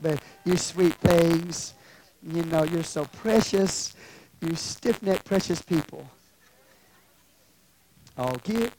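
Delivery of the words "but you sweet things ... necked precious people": slow, sugar-coated version of a rebuke; mock sweetness. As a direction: coddle them as precious, insincerely. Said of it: "Now, I wonder if he said".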